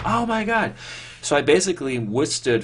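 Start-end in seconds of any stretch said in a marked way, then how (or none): 0.0-0.7 very high, mock-horrified gasp of words; dismayed oh my god. Boy hears forty-five minutes, mock horrified squeal. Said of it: "And I went".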